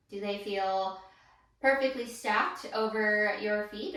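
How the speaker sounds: calm, measured guide voice with long pauses; unhurried meditation-teacher delivery; guided body scan. Real, not acted. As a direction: guide them gently through the body, leaving room to feel.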